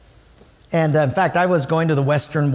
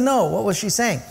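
higher, firmer repeated question; insistent question; 6 semitones higher than usual. Retold or imitated. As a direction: press the guide who is dodging the question. Pressing the guide for an answer.

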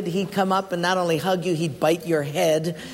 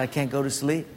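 Mike; 4 semitones lower, 4 dB quieter than usual. Retold or imitated. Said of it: "He said".

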